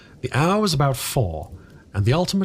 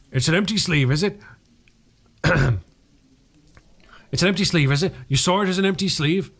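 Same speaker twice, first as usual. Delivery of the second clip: menacing repeat; 5 semitones higher than usual. A narrator's reading.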